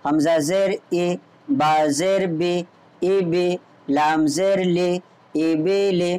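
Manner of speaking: slow letter-by-letter spelling, then joined; spelling demo. Shown as a demonstration. Teacher shows students how to spell a word, slow and measured. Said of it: "आप इस तरीक़े से हिज्जे करेंगे".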